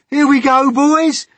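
high, loud rallying yell; whooping high cry; excited shout. A narrator's reading. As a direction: holler to the gang as you set off. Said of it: "mounting excitement and shouts of".

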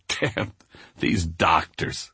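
slow, scoffing dismissal; dismissive. Retold or imitated. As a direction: brush the doctors off. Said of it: "Peanut is immediately dismissive".

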